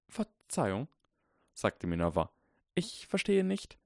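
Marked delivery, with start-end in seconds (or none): 0.1-0.9 higher, stern professor voice; a Scottish-tinged teacher, puzzled; stern witch professor. A narrator's reading. Minerva voiced in story. 2.7-3.8 higher, stern professor voice; a Scottish-tinged teacher, puzzled; stern witch professor. A narrator's reading. Minerva voiced in story.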